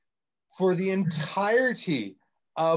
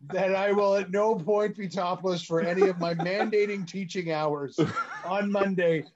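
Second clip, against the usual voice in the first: higher-pitched, mock-official public notice; mock-formal disclaimer; 4 semitones higher than usual. Teacher protecting his job to podcast listeners, mock-formal disclaimer. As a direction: announce it like a solemn disclaimer, playfully.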